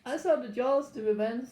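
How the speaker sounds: playful attempt at a Caribbean accent; mock Caribbean accent. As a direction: imitate Caribbean speech, loosely. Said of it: "I think they speak like that".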